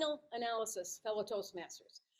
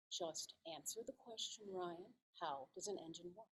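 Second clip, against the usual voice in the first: restrained parental insistence; 5 semitones lower, 12 dB quieter than usual. Retold or imitated. Mother deflecting her son's question.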